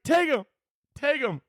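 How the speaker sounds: high-pitched cowardly offer; hammed-up plea to save yourself; squeaky comic panic; mock panicked pleading. Repeats cowardly hostage plea.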